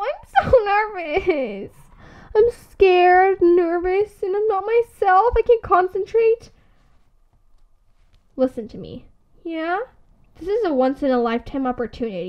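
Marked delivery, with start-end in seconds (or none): 0.0-6.5 nervous near tears. Acted.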